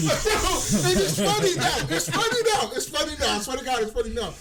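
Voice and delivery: high, loud, easing down by the end; amused insistence. Real, not acted. Teller excusing his laugh at the funeral story, amused insistence. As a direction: insist through leftover laughter.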